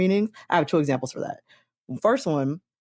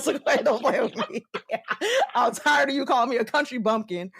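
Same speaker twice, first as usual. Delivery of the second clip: high laughing imitation of a Southern friend; lightly voiced friend, laughing; imitating her friend; 6 semitones higher than usual. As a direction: mimic her fussing at you, laughing through it. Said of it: "She said".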